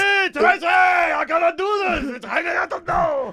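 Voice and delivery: high, shouted, hammed-up sobbing wail; mock crying. Friend mocking the patient's plea to Tracy, mock crying. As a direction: bawl in mockery of a whining friend. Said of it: "I wasn't crying".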